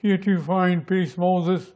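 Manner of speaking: very slow, dramatic epic delivery; Ten Commandments film scene. Shown as a demonstration.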